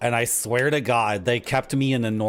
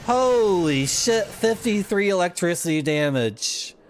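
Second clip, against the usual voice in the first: stunned exclamation; 7 semitones higher, 3 dB louder than usual. Real, not acted. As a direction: blurt it out in shock. Huge damage number appears.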